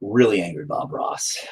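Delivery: soft unvoiced echo of the joke; whisper. Real, not acted. Painter whispering back the friend's joke.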